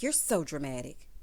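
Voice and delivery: low, soft mock dismissive husband. Vlogger mimicking the husband dismissing his teary wife.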